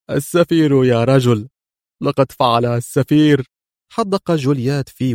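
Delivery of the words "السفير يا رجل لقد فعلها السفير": understated tearful despair; a touch of bitter tears. Acted. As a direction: admit defeat through tears. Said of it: "دموع القهر والمرارة". (مرارة باكية خفيفة)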